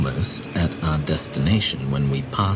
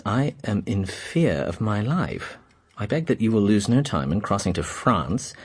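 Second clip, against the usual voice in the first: reading a letter aloud; 5 semitones higher than usual. Acted. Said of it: "But read for yourself".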